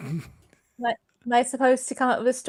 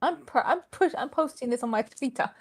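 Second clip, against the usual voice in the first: Jocko; 3 semitones higher than usual. Retold or imitated. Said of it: "like Jocko would say".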